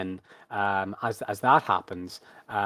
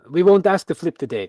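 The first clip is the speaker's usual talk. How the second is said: raised, louder showman voice; ringmaster announcement; 5 semitones higher, 8 dB louder than usual. Acted. Ringmaster excuses the bear from a flip, projected stage voice.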